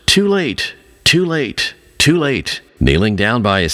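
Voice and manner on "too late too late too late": crying out. A narrator's reading. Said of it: "crying out".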